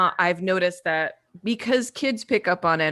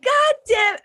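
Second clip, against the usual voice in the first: loud, slow mock outburst at the kids; deep angry voice; 5 dB louder, much slower than usual. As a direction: bellow it slow like a fed-up mom. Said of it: "I would say it in a deeper voice".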